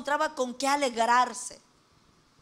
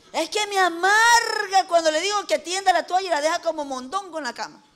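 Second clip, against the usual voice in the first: lloriqueo de queja; 4 semitones higher, 4 dB louder than usual. Retold or imitated. Women complain with bitterness.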